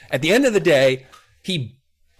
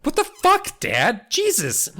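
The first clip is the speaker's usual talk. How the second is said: mock outrage; 13 semitones higher, slower than usual. Kid outrage.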